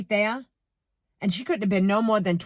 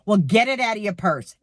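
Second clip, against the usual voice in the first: rude cashier. Retold or imitated. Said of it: "It's exactly how she said it".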